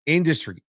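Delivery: "industry" leaned on with mild weight; stress on industry. Shown as a demonstration. Coach stressing to podcast listeners, "industry" said with emphasis. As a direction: give "industry" a firm, pointed push. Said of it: "emphasis on the word industry".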